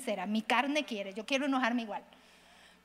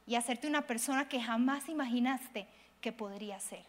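kind inner voice; 3 semitones lower than usual. Shown as a demonstration. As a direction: speak to yourself like a loving friend. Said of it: "La forma correcta de hablarme es".

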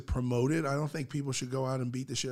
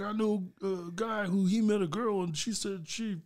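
gossipy hater; 4 semitones higher than usual. Retold or imitated. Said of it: "I was like".

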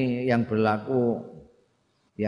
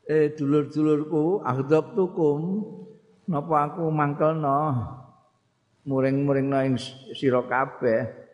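higher, concerned voice of Abu Bakar; voicing Abu Bakar; 6 semitones higher than usual. Abu Bakar asking the companions if he angered them, anxious and higher. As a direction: ask your brothers anxiously, voice raised higher. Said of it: "ngendika sahabat Abu Bakar".

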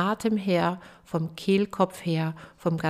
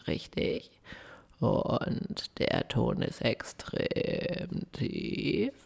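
low creaky fry voice; vocal fry; 6 semitones lower, 6 dB quieter than usual. Shown as a demonstration. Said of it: "Das Ding heißt Vocal Fry".

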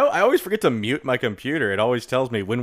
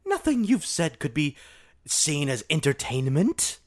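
put-on female British accent. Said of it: "I do a nice female British accent".

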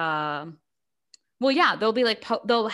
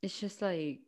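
fast, breathy whispered aside; whispering; 4 semitones lower, 11 dB quieter, faster than usual. Real, not acted. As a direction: whisper it in disbelief. Sighing, disgusted aside.

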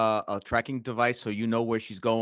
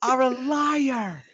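very high, slow singsong accusation; hammed-up slow taunt; mock accusation; 7 dB louder, much slower than usual. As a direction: sing it out like a taunt. Friend joins the joke mockingly.

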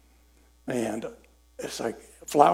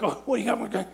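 higher, laughing nervous ask; laughing plea; 9 semitones higher, 3 dB quieter than usual. Retold or imitated. Pleading with God for a word.

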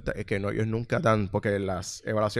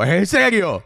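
exasperated disbelief; 8 semitones higher, 9 dB louder, slower than usual. Retold or imitated. Exasperated clerk in Grinch mode.

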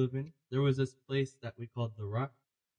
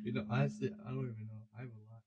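mumbling quietly; 3 semitones lower, 10 dB quieter than usual. Real, not acted. Quiet hesitant off-mic mumbling.

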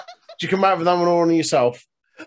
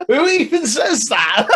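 high, slow question breaking into laughter; laughing incredulity; 8 semitones higher, 3 dB louder, slower than usual. Real, not acted. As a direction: crack up while asking, pitched high. Laughing at the odd phrase.

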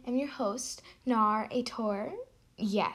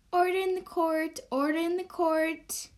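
judge calling order; 6 semitones higher than usual. Acted.

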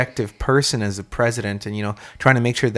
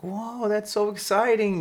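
higher, slow mock childlike thrill; kid excitement; 10 semitones higher, 5 dB quieter, slower than usual. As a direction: play the thrilled little kid, stretching it out. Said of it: "And I was like".

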